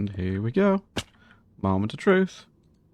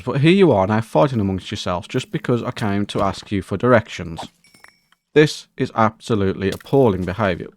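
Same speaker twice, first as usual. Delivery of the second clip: mock outraged gentleman. Outraged complaint to fighting mobs.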